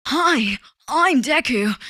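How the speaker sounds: put-on high anime boy-hero introduction; Deku. Streamer trying a revised impression, Deku voice. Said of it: "maybe Deku is more like".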